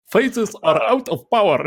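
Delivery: slow, put-on Russian accent officer; Russian accent, dragging the words. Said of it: "mit russischem Akzent zu sprechen".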